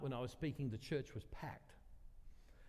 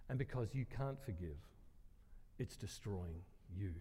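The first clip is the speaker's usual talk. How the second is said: measured, sinking lower toward the end; calm retold reply; 4 semitones lower, 5 dB quieter than usual. Speaker answers grieving woman about forgiving, calm and sincere. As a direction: answer gently, letting pitch and volume settle.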